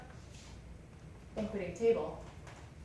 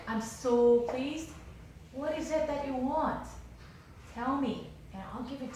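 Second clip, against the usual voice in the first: pleased king; 5 semitones higher than usual. Retold or imitated. Pleased king offers queen anything.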